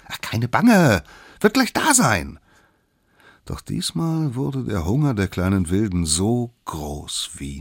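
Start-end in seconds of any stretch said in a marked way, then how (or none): 0.1-2.4 high, loud character voice; raised pitch, cheerfully insistent; breezy little one. Acted. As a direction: brush the worry off in a squeaky pipe. Smallest one brushes off complaints.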